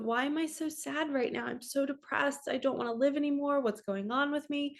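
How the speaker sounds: mildly upset imitation of crying to yourself; tearful. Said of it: "I'm literally crying, going".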